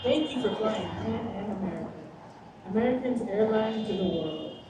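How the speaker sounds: calm cabin announcement voice; flight attendant. Acted.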